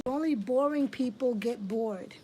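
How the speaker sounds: whispered, as the mother said it; quoting mother. Retold or imitated. A mother telling her bored daughter, in a whisper. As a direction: hush it like a stern secret. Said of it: "She said".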